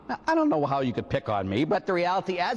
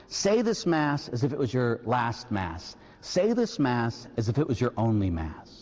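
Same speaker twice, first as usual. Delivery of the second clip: solemn reading of the sign; 5 semitones lower than usual. Shown as a demonstration. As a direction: read it like a sacred inscription, line by line. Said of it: "a little sign that says".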